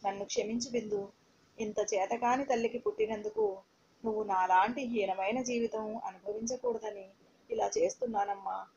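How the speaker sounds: put-on a broken whisper of goodbye to her baby; tearful farewell. Mother begs her baby daughter's forgiveness, softly and tearfully. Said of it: "అంటూ ... ఏడ్చాను".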